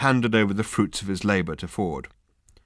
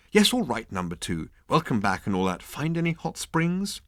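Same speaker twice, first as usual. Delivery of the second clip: despondent; 5 semitones higher than usual. Acted. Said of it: "said the captain despondently".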